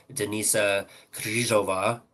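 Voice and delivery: Denisa Kryzhova said slowly, x0.7 pace, for a learner; slow, careful Denisa Kryzhova for the listener; careful demo. Shown as a demonstration. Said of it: "say it one more time, first and last name".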